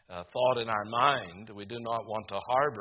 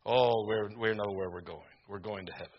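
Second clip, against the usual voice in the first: mocking pretense; 3 semitones lower than usual. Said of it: "many of us pretend about dying".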